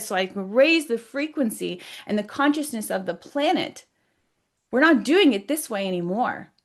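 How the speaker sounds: emphatic declaration, leaning on key words; firm demand. Retold or imitated. Claiming her body and space from the energy, firmly demanding. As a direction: insist on it, standing your ground. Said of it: "said and demanded".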